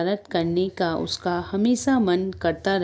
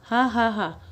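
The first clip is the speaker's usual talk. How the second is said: read-out "ha ha ha", higher pitched; mock laugh; 4 semitones higher, slower than usual. A narrator's reading. Shopkeeper laughs at the mouse, mock laugh. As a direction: imitate a scoffing laugh. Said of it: "तो दुकानदार हंसा".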